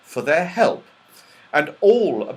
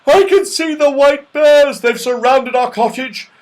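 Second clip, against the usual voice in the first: loud, raised bear bellow; loud growl; 14 semitones higher, 11 dB louder than usual. A narrator's reading. Father Bear sees bears in the snowstorm, growling loudly. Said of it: "then he growled loudly".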